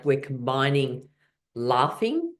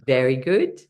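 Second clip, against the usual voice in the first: cheering praise. Shown as a demonstration. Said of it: "So again".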